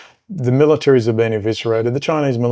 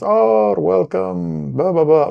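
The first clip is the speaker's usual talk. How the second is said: high, sing-song mock welcome; imitating gushing hosts; 7 semitones higher, much slower than usual. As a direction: play the over-eager greeting host, pitched up. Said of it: "the first thing out of their mouths was".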